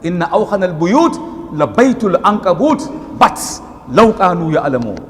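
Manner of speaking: quick, chanted Arabic recitation ending the verse; Quran recitation. Real, not acted. To the congregation, chant the Arabic verse. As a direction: chant it through with stress on أوهن.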